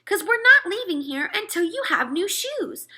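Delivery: mother laying down the law, firm; meaning it. A narrator's reading. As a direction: say it like you mean it. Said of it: "my mother said like she meant it".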